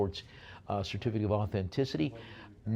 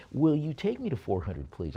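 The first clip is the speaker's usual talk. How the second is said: put-on voice; 3 semitones higher than usual. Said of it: "I'll do the voice again".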